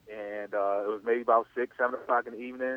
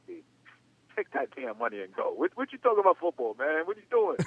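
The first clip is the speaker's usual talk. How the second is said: incredulous friends; 6 semitones higher than usual. Retold or imitated. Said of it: "they were like".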